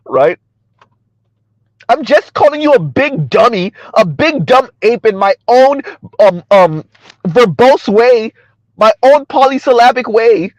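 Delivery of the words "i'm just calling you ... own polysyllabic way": mock highbrow put-down, slowing towards the end; Kim Foster. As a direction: imitate a condescending intellectual, lightly pitched up. Mocks Kim Foster's put-downs.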